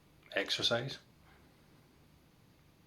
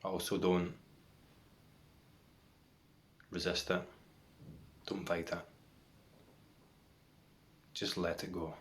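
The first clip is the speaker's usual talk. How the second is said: guided meditation. Real, not acted. Guiding viewers to watch for the next thought, meditation voice. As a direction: lead them into stillness, leaving long silences between phrases.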